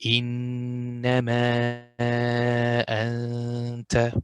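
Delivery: slow, drawn-out إنما أنت; slow ikhfa demo. Shown as a demonstration. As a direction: stretch it out. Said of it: "so it will be".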